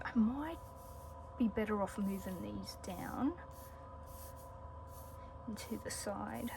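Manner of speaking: very low, unwell voice; quiet, fading voice from being sick; barely audible. Real, not acted. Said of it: "Sorry if my voice is very low".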